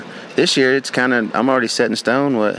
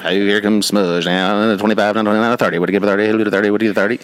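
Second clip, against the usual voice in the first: auctioneer; faster than usual. Retold or imitated. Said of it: "I feel like an auctioneer from this point".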